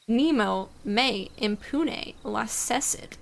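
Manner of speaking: Nemo me impune lacessit said slowly with Italian-style vowels; mispronounced Latin. Acted. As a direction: sound out each Latin word, unsure. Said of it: "That's totally pronounced wrong".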